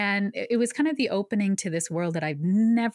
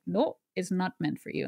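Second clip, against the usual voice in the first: a hint of East Indian mother's accent. Mom refusing daughter's plea, lightly in her East Indian accent. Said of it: "I just automatically flip into her accent".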